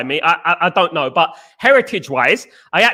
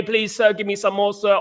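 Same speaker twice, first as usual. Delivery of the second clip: lightly voiced pleading orphan, a touch softer; mock Oliver Twist; 2 semitones higher, 3 dB quieter than usual. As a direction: beg humbly for more like a hammed-up Oliver Twist. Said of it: "Oliver Twist F C".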